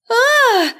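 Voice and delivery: sharp high yelp as she falls; a sudden high cry of losing balance; startled cry. Acted. Girl losing her footing cries out, startled yelp.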